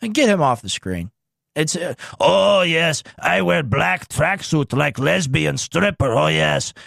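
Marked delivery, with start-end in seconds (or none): 2.2-6.7 Tucker impression. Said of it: "That's my Tucker impression".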